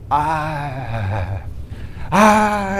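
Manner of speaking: imitated stuck, drawn-out "ah"; struggling to speak. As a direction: mimic failing to get the words out. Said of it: "and I tried to say".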